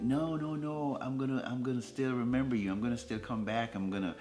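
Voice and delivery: insistent reassurance, high at first then settling; mildly acted pleading promise, starting high; retold reassurance. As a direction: reassure her, opening on high protesting no's. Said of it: "And I'm like".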